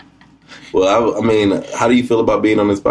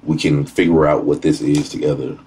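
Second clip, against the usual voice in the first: demo of what to tell a date; 6 semitones lower than usual. Shown as a demonstration. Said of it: "You have to say".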